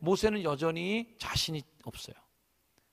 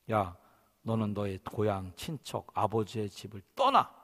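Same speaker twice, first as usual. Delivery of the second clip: low, measured, word by word; solemn command; 6 semitones lower than usual. Acted. God sending Abraham from his home, solemnly commanding. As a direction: pronounce it like God giving orders.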